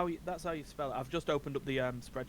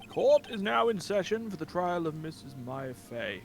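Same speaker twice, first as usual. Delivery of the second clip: judge voice; 4 semitones higher than usual. Acted. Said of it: "between that and the judge".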